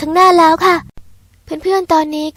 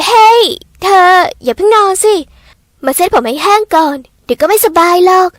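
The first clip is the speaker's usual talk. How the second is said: loud, higher call to stop her lying down; 3 semitones higher, 5 dB louder than usual. Acted. Girl calls loudly to her roommate to stop her lying down. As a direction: raise your voice to catch her before she sleeps. Calling Natasha away from the bed.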